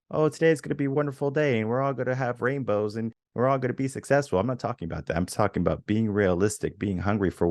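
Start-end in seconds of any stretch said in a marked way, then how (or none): 0.1-4.4 high, gushing pretend positivity; mock the relentlessly upbeat dreamer in a higher voice; put-on rainbows-and-sunshine voice; mock sunny optimism. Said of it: "I'm not saying be all like".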